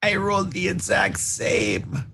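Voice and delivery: high-pitched cry of dismay; exasperated disbelief. Real, not acted. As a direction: wail it in disbelief at the dice. Player dismayed by identical reroll.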